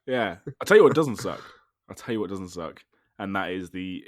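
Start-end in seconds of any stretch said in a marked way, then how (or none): 0.6-1.4 loud proclamation. Acted. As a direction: call it out big. Repeats the line, first take loud.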